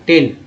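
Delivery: टेन with an ए vowel; टेन said alone, E as ए; word pronunciation demo. Shown as a demonstration. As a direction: model टेन as a single word. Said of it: "ए के रूप में कर सकते हैं".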